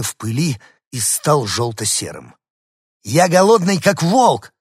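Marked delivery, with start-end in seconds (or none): 3.0-4.5 much higher, loud bark; small dog barking he is hungry. Acted. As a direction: snap it out hungrily. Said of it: "рявкнул Дуля".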